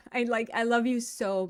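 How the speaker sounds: gushing. Shown as a demonstration. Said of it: "I love you so much".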